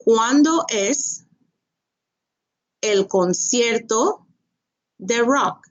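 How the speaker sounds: ¿Cuándo es el concierto de rock? broken into slow chunks; slow model question. Shown as a demonstration. Teacher slowly modelling a question for the class. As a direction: spell the question out slowly for learners. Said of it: "That is, when is the rock concert?".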